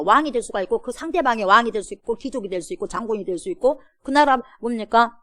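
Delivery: usual speaking voice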